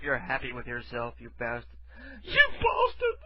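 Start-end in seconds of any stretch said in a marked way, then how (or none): 2.2-3.2 very high-pitched mocking cry; mock outraged woman. Mimicking the woken woman's insult, high mock outrage. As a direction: squeal it as an outraged victim. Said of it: "I'm so gonna isolate that one".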